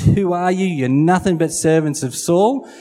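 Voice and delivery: lightly acted scornful challenge; taunting. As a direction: belittle them with a lifted, challenging question. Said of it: "The Goliath taunts and says".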